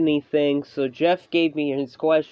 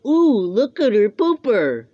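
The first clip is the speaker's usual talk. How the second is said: mock creepy voice; 5 semitones higher, 4 dB louder than usual. Mocking a creepy butt inspector.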